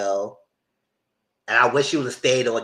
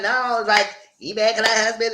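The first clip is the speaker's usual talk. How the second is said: sister's defensive quote; 8 semitones higher than usual. Retold or imitated. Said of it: "she said".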